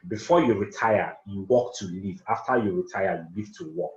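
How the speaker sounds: slow repeat, punching before and after; teacher driving the maxim home; repeated stressed maxim. Shown as a demonstration. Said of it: "Let me say that again".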